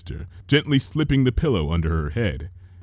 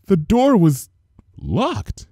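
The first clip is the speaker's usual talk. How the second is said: cheery greeting; 9 semitones higher, slower than usual. A narrator's reading. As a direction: call out brightly as a baker. Missus Cake voiced.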